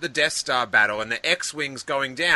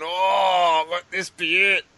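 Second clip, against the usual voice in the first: raised, loudly hopeful retold wish; hopeful plea; 4 semitones higher, 4 dB louder, slower than usual. Film fan willing the next Star Wars to come, hopeful plea. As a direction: send up a fan's eager hope.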